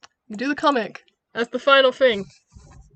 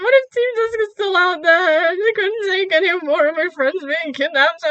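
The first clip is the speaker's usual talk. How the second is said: higher, anxious pleading voice; worried; 5 semitones higher than usual. Acted. Jet frets about Team Dusk, high anxious voice. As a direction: lift the voice in fretful worry. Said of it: "And it's just like".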